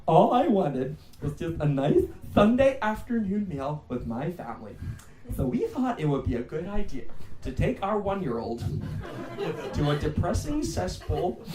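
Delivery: mock-earnest complaint, slowing on the grievances; lightly acted outraged parent, drawn-out key words; aggrieved reviewer. Comedian reads out a parent's pub review, mock-aggrieved. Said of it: "you read these, like, long articles".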